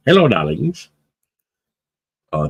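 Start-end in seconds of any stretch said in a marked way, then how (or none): 0.1-0.9 high sing-song hello, louder; shopkeeper's greeting. Pretend. Streamer repeats the shop greeting for chat, high sing-song. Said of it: "Is that where it come from".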